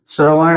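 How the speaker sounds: श्रवण said slowly, with a clear retroflex ण at the end; slow model word; careful pronunciation. Shown as a demonstration. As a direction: stretch out श्रवण and land on the ण. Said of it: "न, ऐसा आना चाहिए".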